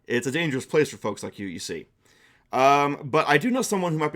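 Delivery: welcoming storybook creature, only slightly put on; a helpful accordion dragon offers aid, lightly voiced; lightly voiced friendly dragon. Dragon consoles and warns.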